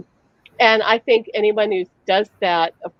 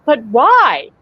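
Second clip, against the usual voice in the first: put-on a louder child's plea; imitating the son; 3 semitones higher, 6 dB louder than usual. Son questioning his mother, mildly louder. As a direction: ask why like a confused small boy. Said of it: "And he said".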